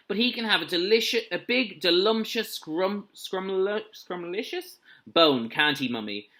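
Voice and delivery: gushing with delight over a treat for the dog; excited cry. A narrator's reading. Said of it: "cried Janet".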